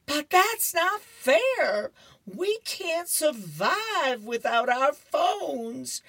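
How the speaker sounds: high, loud, drawn-out hammed-up wail; hysterical Curtis. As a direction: wail in protest like a distraught schoolkid. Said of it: "Curtis is going crazy".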